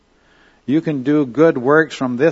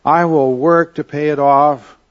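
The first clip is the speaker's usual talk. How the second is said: a touch of begging, raised and emphatic; mild pleading; 3 semitones higher, 4 dB louder, slower than usual. Retold or imitated. Debtor servant begging his master for time, mild mock pleading. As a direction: lightly act out a servant begging for mercy. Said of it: "the man just pleads".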